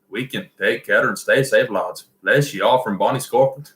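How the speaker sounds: put-on second amateur go at a Scottish accent; throaty Scottish accent. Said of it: "Scottish is a little bit more kind of down in your throat".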